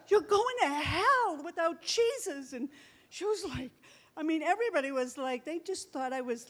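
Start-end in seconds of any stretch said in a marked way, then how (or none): 0.1-2.5 emphatic warning. Retold or imitated. Retold warning to the woman.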